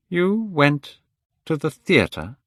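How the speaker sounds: a hint of stunned older friend; shocked disbelief. Basil hearing Dorian went out the night she died.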